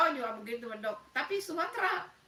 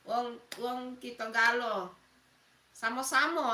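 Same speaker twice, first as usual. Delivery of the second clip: Palembang dialect. Shown as a demonstration. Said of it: "bahasa Palembangnya sama-sama?".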